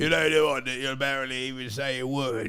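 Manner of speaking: put-on inauthentic, mumbled British accent; mock British accent. American showing off a bad British accent. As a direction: swallow the words in fake British. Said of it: "not doing an authentic British accent".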